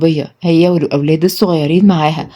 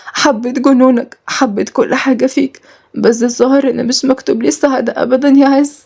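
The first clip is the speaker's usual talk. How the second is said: dying confession; 4 semitones higher than usual. Acted. Dying Nour confesses love.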